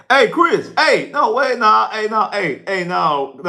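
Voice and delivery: sudden pitch jump of surprised denial; flustered excited protest. Real, not acted. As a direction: caught off guard, protest quickly. Flustered reaction to Super Chat.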